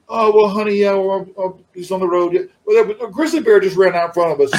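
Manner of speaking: high, quick boastful one-upper; one-upping Brian impression. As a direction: toss it off like a know-it-all. Mimicking Brian one-upping a remark.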